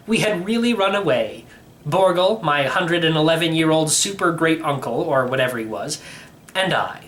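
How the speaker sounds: plain reading voice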